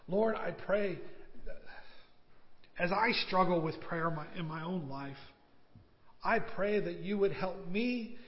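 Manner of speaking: earnest pastor's prayer, rising and falling; closing prayer. Acted. Pastor leads the standing congregation in prayer, fervent. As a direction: pray aloud for the congregation, heartfelt.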